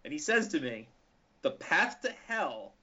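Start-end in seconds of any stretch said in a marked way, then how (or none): 1.4-2.7 quoting the priest. Retold or imitated. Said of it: "and I quote".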